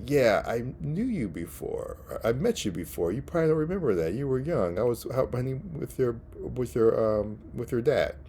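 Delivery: a hint of a taunting Rhino; casual mock villain taunt; imitating Rhino. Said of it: "Rhino's talking to Kraven's brother".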